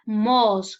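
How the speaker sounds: Mos said loud and drawn out; stressed syllable. Shown as a demonstration. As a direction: hit Mos as the strong syllable. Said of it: "la sílaba con mayor fuerza de voz".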